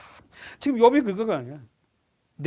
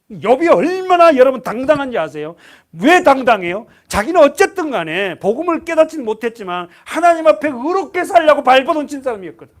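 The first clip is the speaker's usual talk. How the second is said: loud, raised preaching voice; fiery preaching; 6 semitones higher, 11 dB louder than usual. Acted. Preacher exhorting the congregation, loud and fervent. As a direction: proclaim it to the whole hall.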